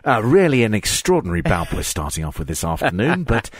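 lightly imitated wrestling commentator; a measured touch of reserved commentary; politely amused, as if not everyone will agree; Kent Walton. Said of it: "Kent Walton is doing his".

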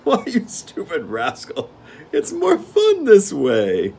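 high, slow, loud gleeful king; gnome king. Acted. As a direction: relish the game like a spoiled monarch. Gnome king mocking steward.

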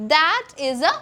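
each word slow and distinct; slow model sentence. Shown as a demonstration. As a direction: say it slowly for learners to copy. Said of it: "എങ്ങനെയാ പറയാ?".

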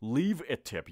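very slow, spelled-out please leave a tip; drawn-out teacher demo; teacher demo for students, slowed right down; slow model phrase. Shown as a demonstration.

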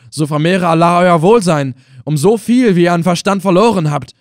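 the prisoner thanking the Effendi, half scornful, half touched; half mocking, half moved. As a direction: thank him with a trace of mockery and a trace of emotion. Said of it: "halb spöttisch, halb gerührt".

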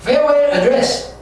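"Farewell address" drawn out very slowly; slow teacher reading; slow drill. Shown as a demonstration. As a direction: stretch it out for students. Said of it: "slow vocabulary drill".

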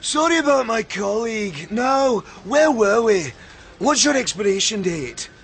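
put-on Scottish phone voice; Scottish accent. Taking over a colleague's customer call, in a Scottish accent. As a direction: attempt a lively Scottish accent. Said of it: "Well, you do it then".

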